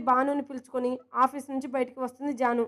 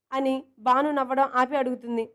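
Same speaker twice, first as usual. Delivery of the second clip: ordinary delivery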